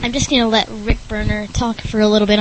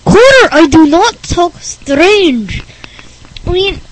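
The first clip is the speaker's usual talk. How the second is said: Rick Berner's strange voice; 7 semitones higher, 9 dB louder than usual. Acted. Oddball denying to Connor he talks strange, indignant. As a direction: protest in a weird, raised character voice. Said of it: "thinks Rick Berner talks strange".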